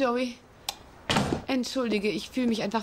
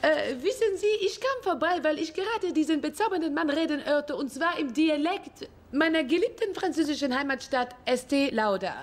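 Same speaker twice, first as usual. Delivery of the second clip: put-on French accent; 3 semitones higher than usual. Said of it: "ich bin, äh, Regine Philange".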